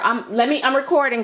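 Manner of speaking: ordinary delivery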